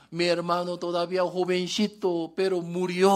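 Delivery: mock grieving sister bemoaning her brother; lamento actuado. Acted lament of Martha and Mary. (imitando un lamento de duelo)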